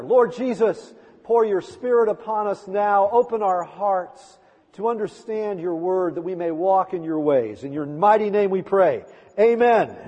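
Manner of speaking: steady, earnest prayer voice leading the congregation. Acted. Pastor praying aloud for the congregation, earnest prayer. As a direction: lead the church in an opening prayer, fervent and steady. Opens prayer after gospel reading.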